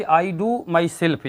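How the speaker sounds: slow teacher dictation. Shown as a demonstration. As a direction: do stressed, very slow and spelled out. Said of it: "एक example जो है बच्चों यहाँ पर हम लिखे हुए हैं".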